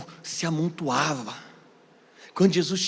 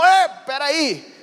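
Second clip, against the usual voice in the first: sudden halt; 10 semitones higher, 7 dB louder, much slower than usual. Retold or imitated. Old trucker cuts him off.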